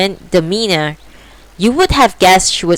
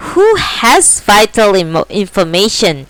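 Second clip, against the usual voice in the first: demanding; 3 semitones higher than usual. Acted. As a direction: demand an answer. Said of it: "he demanded".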